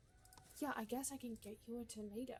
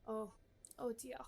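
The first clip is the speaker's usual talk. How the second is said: haughty gourmet lady. Acted. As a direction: read it like a picky aristocrat giving orders. Voicing the gourmet NPC Marguerite.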